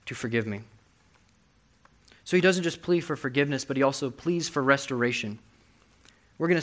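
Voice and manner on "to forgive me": desperate cry. Retold or imitated. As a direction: cry out to God, then fade into slow pleading. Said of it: "he's crying out desperately".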